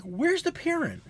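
high-pitched mock yell at a parent; retold yelling. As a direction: call out indignantly, drawn out and high. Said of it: "I'm yelling top of my lungs".

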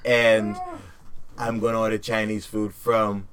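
loosely voiced Trump, close to his own voice; a light mock Trump rally boast; Donald Trump impression. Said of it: "my Donald Trump impression down pat".

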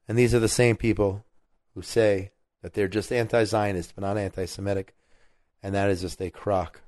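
tired, strained voice fading; hoarse voice wearing out; voice giving out. Real, not acted. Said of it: "my voice is giving out on me".

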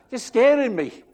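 laughing high pretend fright; mock scared. Pastor voicing the Bible as scared, laughing. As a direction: laugh it out as if spooked.

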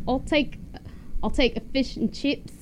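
lightly put-on English accent; tentative English accent, a little amused; English accent attempt. Shown as a demonstration. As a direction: try an English accent, carefully. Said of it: "in your English accent".

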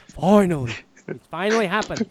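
a hint of The Rock's hype; The Rock impression. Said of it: "That's my rock impression".

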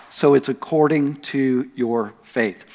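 slow, measured "your faith" with a falling end; stress on "your faith". Retold or imitated. Preacher returning to his point, measured stress on "your faith". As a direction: let "your faith" land slowly. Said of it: "He put the emphasis on their faith".

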